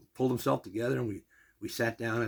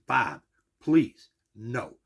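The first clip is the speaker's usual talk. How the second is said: louder, firm polite no; pleading refusal; 8 dB louder, much slower than usual. Retold or imitated. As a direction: refuse the hat earnestly. Refusing the gift.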